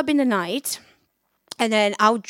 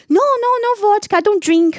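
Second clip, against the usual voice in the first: much higher and louder, fast refusal; friend's emphatic refusal; 10 semitones higher, 8 dB louder than usual. Retold or imitated. Friend turning down vodka, high emphatic refusal. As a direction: wave off the vodka, squealing no.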